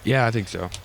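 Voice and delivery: talking through a yawn. Real, not acted. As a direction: say it mid-yawn, sleepy. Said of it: "I'm yawning".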